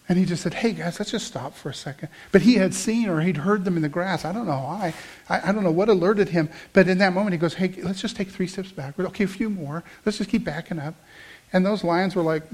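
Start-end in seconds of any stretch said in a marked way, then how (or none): 0.5-2.1 calm. Retold or imitated. Guide halting his group near hidden lions, calm. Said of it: "he was just so calm". 7.5-10.9 soft, unhurried calm instructions. Retold or imitated. Guide backing his group away from lions, calm. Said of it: "he was just so calm".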